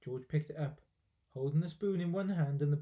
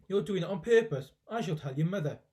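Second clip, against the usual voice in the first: scolding grandma; 2 semitones higher, 3 dB louder than usual. Acted.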